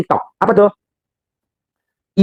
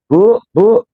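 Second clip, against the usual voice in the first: higher-pitched call to someone out of earshot; calling his wife; 5 semitones higher than usual. Acted. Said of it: "nggak kedengeran kan di belakang".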